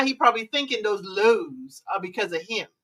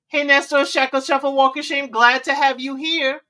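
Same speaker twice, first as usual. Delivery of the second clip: cheerful greeting; 3 semitones higher, 5 dB louder than usual. Real, not acted. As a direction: greet the viewers warmly. Greeting chat viewers.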